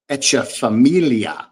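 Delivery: Echeferria drawn out as "etch-uh-fuh-MEEL-yuh"; own pronunciation. Shown as a demonstration. Host reading a viewer's name aloud his way, Echeferria stretched out like "etch-uh-familia". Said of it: "That's how I say it".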